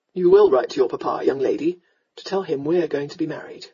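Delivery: lightly voiced commanding gentleman; stern lord. Lord tells young lady they will marry, sternly.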